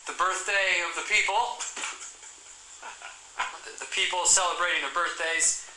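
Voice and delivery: a loose, hammy Obama speech; Barack Obama impression. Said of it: "Barack Obama".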